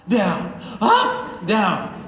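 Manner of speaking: exaggerated seesaw of mood; manic-depressive swings. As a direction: swing from deflated "down" to elated "up". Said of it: "this manic depressive situation".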